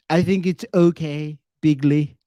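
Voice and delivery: a hint of Trump's bigly. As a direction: streamer tossing in a Trump word, light Trump. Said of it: "my Trump voice".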